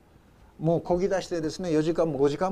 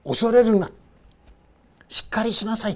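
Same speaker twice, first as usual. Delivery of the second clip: raised, higher call to calm them; commanding reassurance; 6 semitones higher, 5 dB louder than usual. Acted. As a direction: call out over the storm to steady them. Preacher voices Jesus calming. (弟子たちを励ますイエスの力強い呼びかけ)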